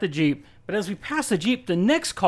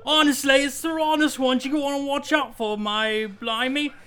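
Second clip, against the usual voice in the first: higher, laughing pirate captain impression; Jack Sparrow voice; 7 semitones higher than usual. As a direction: ham up a pirate rogue, breaking into laughs. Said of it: "I'm Jack Sparrow".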